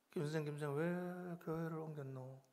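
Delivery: slow, soft drawn-out question; quietly imitated concerned inquiry; soft retold question. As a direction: ask it softly, stretching the "why". Retells gently asking the friend.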